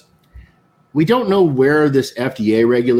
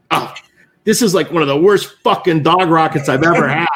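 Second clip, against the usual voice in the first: higher-pitched mock disgust at a bad cigar; retold griping, pitched up in revulsion; acted-out disgust; 5 semitones higher than usual. Senior chief spits out verdict on the cigar, mock disgusted. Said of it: "he just does one of these things like".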